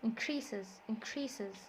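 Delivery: "Increases" with CREA stressed; in-CREA-ses, verb stress on "Increases"; stress on second syllable. Shown as a demonstration. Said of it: "احنا بنعلي صوتنا في crease".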